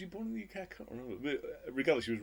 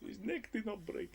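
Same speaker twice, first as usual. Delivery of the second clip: high, slow quoted line; mock villain line; 9 semitones higher, 7 dB quieter, slower than usual. Echoing his friend's quote of the hanging scene, slow. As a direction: drawl it out like the film villain. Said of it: "quoting the film line".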